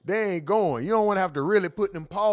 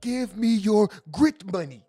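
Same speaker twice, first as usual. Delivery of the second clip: mock pitch; 6 dB louder, slower than usual. Mocking the grits pitch, louder.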